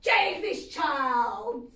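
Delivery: loud, slow order; angry officer handing over the child; officer shouting. Retold or imitated. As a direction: bark it at her. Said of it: "shouts at me".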